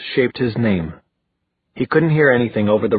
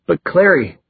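higher, urgent objection; anxious protest; 8 semitones higher, 4 dB louder than usual. A narrator's reading. Simon protesting to Magnus about Clary, anxious. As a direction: start to object, pitch leaping up.

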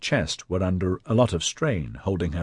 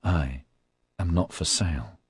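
growled; 5 dB quieter than usual. A narrator's reading. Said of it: "she growled out".

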